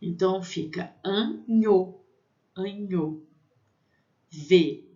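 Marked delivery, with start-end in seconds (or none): 1.0-2.0 "anho" split in two with a palatal nh. Shown as a demonstration. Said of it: "tem som de N H". 2.6-3.2 "anho" joined, with a palatal nh. Shown as a demonstration. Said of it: "tem som de N H".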